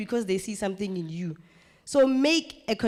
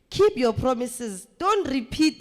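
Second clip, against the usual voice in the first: slow and louder, each word weighted; loud emphatic advice; 4 semitones higher, 5 dB louder, slower than usual. Shown as a demonstration. Presenter to trainees, slow, loud and emphatic. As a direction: drive the rule home to the room. Coach stressing key advice.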